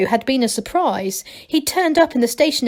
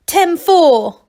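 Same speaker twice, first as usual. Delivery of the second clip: a hint of a CB radio trucker; proud, raised call sign; trucker talk; 8 semitones higher, 8 dB louder than usual. A narrator's reading. Angelo answering Masklin in lorry-driver slang, lightly voiced.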